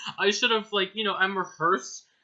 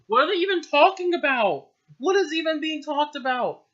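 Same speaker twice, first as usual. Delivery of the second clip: higher, louder exasperated disbelief; incredulous, can't follow the plot; baffled; 10 semitones higher, 8 dB louder than usual. Real, not acted. Reader baffled by the dialogue, exasperated. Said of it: "confused outburst at text".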